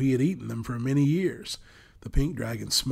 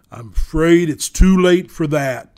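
booming thunder voice; 5 semitones higher, 14 dB louder than usual. A narrator's reading. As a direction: thunder it out like a giant dragon. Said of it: "thundered the voice".

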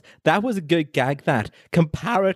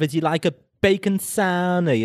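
light put-on Scouse; mock Liverpudlian question; Liverpool accent; 3 semitones higher than usual. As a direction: ask it with a touch of Liverpool accent. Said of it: "are you doing Liverpool accent there".

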